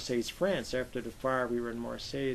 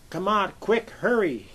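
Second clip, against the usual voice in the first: urgent shout; 8 semitones higher, 8 dB louder, slower than usual. Retold or imitated. Turk calling everyone out.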